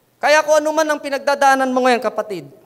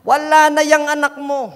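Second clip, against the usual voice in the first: dismissive mourners; 7 dB louder than usual. Retold or imitated. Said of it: "Sabihin ng mga taong ito".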